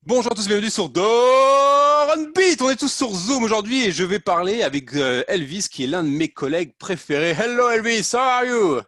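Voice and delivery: high, loud, stretched-out announcer call; show host intro. Acted. Host welcomes viewers and greets colleague, booming show intro. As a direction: belt out the welcome like a big show opener.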